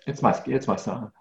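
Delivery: real, quiet choked-up moment with a small laugh; getting emotional. Real, not acted. Father talking about his son, getting emotional. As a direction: softly apologize as feeling comes up. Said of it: "I'm gonna get emotional".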